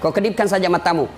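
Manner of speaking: low, easygoing devil; reassuring devil. Acted. Devil tells the dying man not to worry, coaxing. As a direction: coax casually, as if it's no trouble. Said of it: "Dia bilang iblis".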